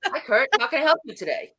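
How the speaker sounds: chirpy call-centre rep; mimicking a phone-company rep greeting Kurt; customer-rep voice. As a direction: sound like a Verizon representative. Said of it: "try not to sound like a Verizon representative".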